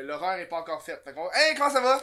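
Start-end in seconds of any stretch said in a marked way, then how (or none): 1.3-2.0 tag. Real, not acted. Host greets guest coming on.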